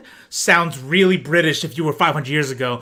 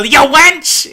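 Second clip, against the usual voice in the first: mock rowdy shout; 10 semitones higher, 7 dB louder than usual. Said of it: "But then it's like".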